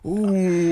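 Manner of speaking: imitating the crowd's wince; a group's laughing ooh; mock crowd ooh. The crowd's reaction to the tackle.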